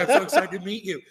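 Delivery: giddy fan meeting a hero, laughing; laughing retold excitement. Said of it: "I was like".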